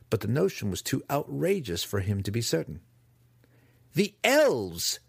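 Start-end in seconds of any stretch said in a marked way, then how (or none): 3.9-5.0 high, loud, thrilled cry; beaming. A narrator's reading. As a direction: burst out with delight. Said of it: "Dinin beamed".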